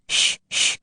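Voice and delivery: soft whispered shush; hushing. Acted. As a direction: hush them at once. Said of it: "the Hatter and the March Hare went".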